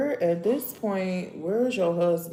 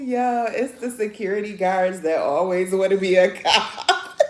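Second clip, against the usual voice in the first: laughing; 3 semitones higher, 6 dB louder than usual. Real, not acted. Joke about security guards.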